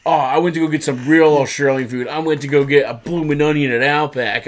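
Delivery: a touch of hammed-up cheap heat; cliche heel patter. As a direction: imitate a corny crowd-baiting wrestler. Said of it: "he does a very, very cliche".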